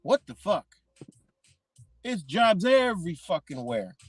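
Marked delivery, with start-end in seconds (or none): 0.0-0.7 high, hushed double take; stunned disbelief. Retold or imitated. Someone looks around and finds jobs everywhere, stunned disbelief. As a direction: act out the shock of looking around, high and soft. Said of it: "you're like".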